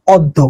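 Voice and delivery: অদ্য said "od-do", doubled d; pronunciation demo. Shown as a demonstration. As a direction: say অদ্য alone, as "od-do". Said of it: "অদ্য শব্দের উচ্চারণ কোনটা".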